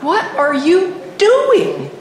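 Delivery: high, slow, baffled mock-husband voice; imitating husband. Husband staring at his raging wife, slow and baffled. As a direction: drag it out like a bewildered husband. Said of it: "He just like".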